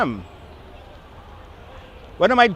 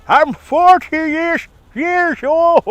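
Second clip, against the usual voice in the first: high, drawn-out mock cry; playful high-pitched lament; hammed-up wail; 11 semitones higher, 4 dB louder, much slower than usual. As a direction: stretch it out high in comic dismay. Mock repeat of own age.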